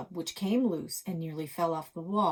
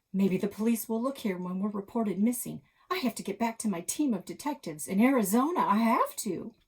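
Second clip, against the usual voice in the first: faster, louder and higher, panic rising; panicky plea; 4 semitones higher, 6 dB louder than usual. Acted. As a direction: beg to get home, voice climbing. Buck pleading, rising panic.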